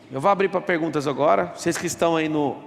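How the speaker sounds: ordinary talk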